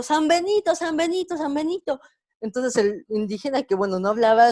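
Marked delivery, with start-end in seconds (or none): 0.0-2.0 pregón agudo y repetido, sin volumen de grito; griterío de multitud imitado. Retold or imitated. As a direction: imita a una muchedumbre coreando en tono alto. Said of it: "todos gritando". (gritos de la gente, imitados a media voz)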